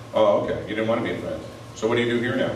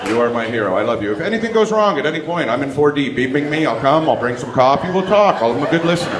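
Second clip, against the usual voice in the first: gushing passenger; 3 semitones higher than usual. Retold or imitated. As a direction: overdo the love for the pilots. Gushing to the pilots at boarding.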